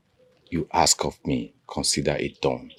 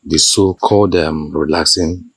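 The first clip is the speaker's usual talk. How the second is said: teasing; 8 dB louder than usual. Acted. King teasing in-law about herbs.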